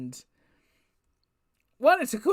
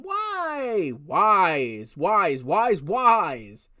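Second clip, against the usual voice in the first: drawn-out whining why, louder; whiny wails; 4 semitones lower, 4 dB louder, much slower than usual. Shown as a demonstration. Complaining to the audience about WWE, mock whining. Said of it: "Here I'm going".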